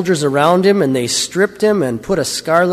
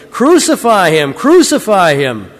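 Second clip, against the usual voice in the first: loud, raised mob demand; crying out; 4 semitones higher, 5 dB louder than usual. A narrator's reading. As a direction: call it out twice, high then slower. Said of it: "they cried out".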